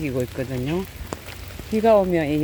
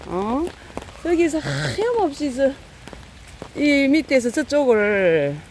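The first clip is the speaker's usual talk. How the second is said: higher pet talk; cooing to pets; 5 semitones higher than usual. Real, not acted. Feeder coaxing the cat into its winter house, higher cooing. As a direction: coax the cat to go rest.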